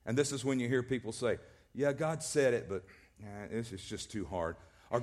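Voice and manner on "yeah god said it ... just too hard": reluctant sigh. Retold or imitated. Preacher mimicking people shrugging off what God said, deflated. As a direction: let the excuse sag away. People voiced making excuses.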